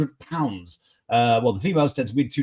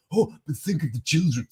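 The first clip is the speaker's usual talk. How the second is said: mock pearl-clutching. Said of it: "someone said".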